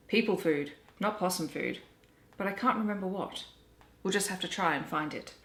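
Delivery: gentle read-aloud storytelling voice; story narration. Acted. Reader telling children the Possum Magic story, gentle narration. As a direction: read it like a bedtime picture book. Reading picture book aloud.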